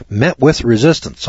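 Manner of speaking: "Met with resistance" repeated with a scoffing laugh; mocking disbelief. Shown as a demonstration. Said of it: "I'm gonna underline that word resistance".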